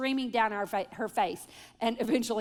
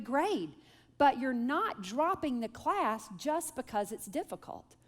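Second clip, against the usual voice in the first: calm dad. Retold or imitated. Husband calmly counsels daughter.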